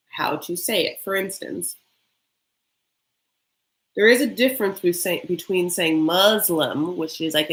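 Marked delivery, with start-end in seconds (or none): 6.0-7.0 "Muslim" slowly, as MUZ-lum with a z; very American pronunciation. Shown as a demonstration. Showing how not to say the faith, Americanized "Muslim". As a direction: stretch "Muslim" with a buzzing American z. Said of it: "an English, very American".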